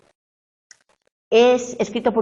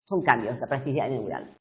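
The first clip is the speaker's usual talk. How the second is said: quieter repeat; 6 semitones lower, 6 dB quieter than usual. Shown as a demonstration.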